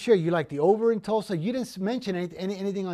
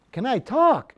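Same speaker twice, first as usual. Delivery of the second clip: indignant dog; 6 semitones higher, 7 dB louder, slower than usual. Retold or imitated. Dog answers buyer, indignant.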